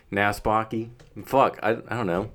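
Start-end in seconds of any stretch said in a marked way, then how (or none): 0.1-0.9 light put-on Southern drawl; attempted Southern accent. Nervous friend trying out a Southern accent on request, tentative Southern. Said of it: "do a Southern accent for me".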